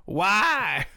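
loud, high melodramatic cry; hammed-up diva wail; Alyssa Edwards as Joan Crawford. Quoting the Snatch game, loud and melodramatic. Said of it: "when Alyssa Edwards goes".

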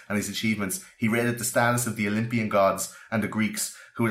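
measured formal quote reading. Acted. Podcast host reading a newspaper tribute to Tesla, formal read. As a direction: read the old tribute with ceremony.

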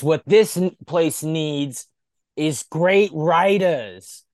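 slow, loud mock Russo pitch-man voice; hammed-up Russo. Russo announcing his vision to the locker room. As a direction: bark it out like a smug booker.

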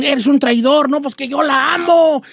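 acusación y réplica exaltadas, más fuerte y agudo; pleito actuado. Acted. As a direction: discute con la tribu. Acted quarrel with the tribe. (exaltado, en plan teatral)

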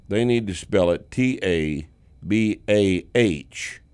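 normal talking voice

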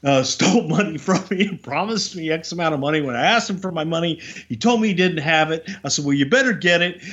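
mild mock fury building over stolen money; retold angry rant. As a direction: let the grievance build up again, half-acted. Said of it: "he starts getting all worked up again".

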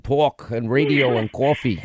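lightly mocked New York accent; imitated New York accent. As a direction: tease with New York vowels on talk and coffee. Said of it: "the accent of Linda in New York".

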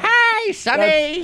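put-on high squealing baby talk; squealing baby talk aunt. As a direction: coo it like a creepy pizza lady. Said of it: "There used to be a creepy pizza lady".

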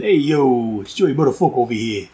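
lightly put-on comic accent; Joey Buttafuoco accent. Reviewer goofing as a caller checking in, mock accent. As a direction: throw in a playful mock accent. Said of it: "I don't know where that accent came from".

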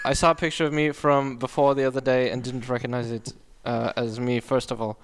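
halting, put-on German accent. Shown as a demonstration. Co-host reading the surgery quote, German accent. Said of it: "do the German".

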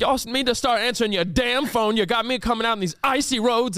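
imitating an irate grandpa ranting; cranky scolding, only mildly yelled; screaming old man. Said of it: "he's screaming and stuff".

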